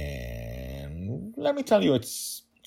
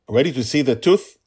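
higher, louder friendly question; father asking; 7 semitones higher, 11 dB louder than usual. Acted. Father beginning to ask daughter, louder friendly. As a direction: start the question warmly.

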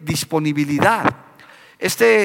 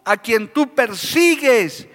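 slow, solemn voice of the Lord; voice of Jesus; 4 semitones higher, much slower than usual. A narrator's reading. Jesus answers Saulo from heaven, slow and solemn. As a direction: speak slowly, with divine weight. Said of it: "El Señor... les responde".

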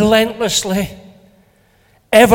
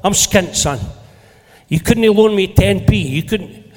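calling across the car park. Retold or imitated.

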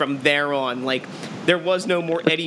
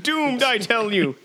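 slow ominous drawl; 6 semitones higher, slower than usual. Pretend. Riffing on soothsayer warning.

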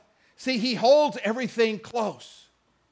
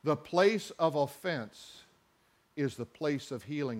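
quiet sermon emphasis; hushed repeat; 7 semitones lower, 9 dB quieter than usual. Real, not acted. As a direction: let it sink in, almost hushed. Pastor repeats principle softly.

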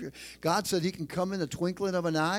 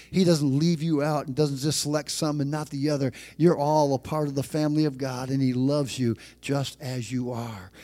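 louder preaching, building to the point; 3 dB louder than usual. Acted. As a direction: preach it with rising force to the church. Pastor raising the sermon.

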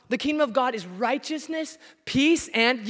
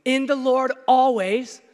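proclaiming Paul's command; 3 dB louder, much slower than usual. Retold or imitated. Preacher booming Paul's command to the church. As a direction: ring out rejoice, loud and slowed. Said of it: "Paul says".

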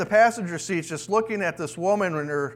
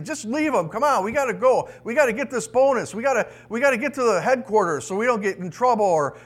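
higher-pitched impatient urging, mildly mock shouted; retold shouting; 4 semitones higher than usual. Back-seat passenger urges the rescuer to leave for the bonus, mock shouting. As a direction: nag him to hurry, without a real shout. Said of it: "shouting at the guy".

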